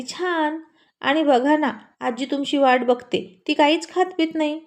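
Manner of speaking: a lightly voiced little girl, asking. Little girl asking uncle who the boy is, lightly childlike.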